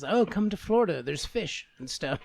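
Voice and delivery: casual imitation of a state commercial; mock tourism ad. Co-host imitates a Florida tourism advert, mock promo. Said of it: "like, a commercial for, like, move here".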